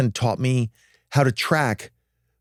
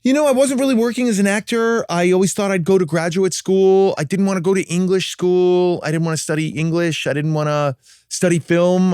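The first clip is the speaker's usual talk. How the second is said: tracking voice; 3 semitones higher than usual. Shown as a demonstration. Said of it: "answer you in a tracking voice".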